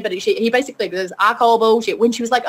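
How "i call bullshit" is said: movie quote in a badly faked Southern accent. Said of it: "a really bad Southern accent".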